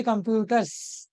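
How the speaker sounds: कंप्यूटर्स slowly with a lengthened final s; emphasised s ending. Shown as a demonstration. Teacher demonstrating plural ending, कंप्यूटर्स slow with long final s. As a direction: draw out the end of कंप्यूटर्स. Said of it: "जो एंड है वो स के साथ".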